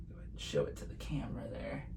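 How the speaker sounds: quick hushed whisper. Real, not acted. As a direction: whisper fast to the helper. Quiet aside to assistant.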